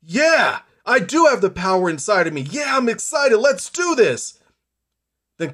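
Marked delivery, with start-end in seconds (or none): 0.0-4.4 excited inner voice. Retold or imitated. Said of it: "with excitement, like".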